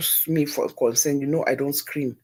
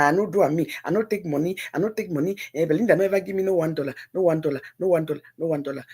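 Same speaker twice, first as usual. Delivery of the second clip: mocking denial; 2 semitones higher, faster than usual. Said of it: "You go through denial".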